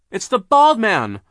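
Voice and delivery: high, slow shouted discovery; excited cry. Acted. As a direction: call out the recognition. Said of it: "Violet cried".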